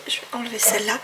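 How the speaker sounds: unvoiced whisper to self; whispered aside. Real, not acted. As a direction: whisper it under your breath. Swapping candles aside. (chuchoté)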